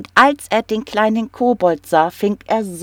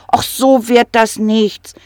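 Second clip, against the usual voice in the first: higher, louder little kobold; kobold calling out; 5 semitones higher, 4 dB louder than usual. Acted. Kobold tricks the troll, calling out brightly. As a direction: call out cheekily. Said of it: "rief der kleine Kobold".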